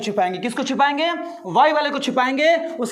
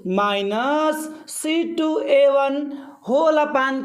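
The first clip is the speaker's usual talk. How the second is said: drawn-out, slow call-and-repeat for the class; slow dictation; much slower than usual. Shown as a demonstration. Teacher reads out the formula slowly for students to repeat. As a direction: say each term slowly so students echo it. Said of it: "मेरे साथ बोलिए सारे लोग".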